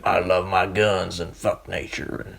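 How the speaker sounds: put-on slow, gung-ho American soldier in a thick American accent; lightly voiced macho American grunt with a thick American accent. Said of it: "has a really thick American accent and is like".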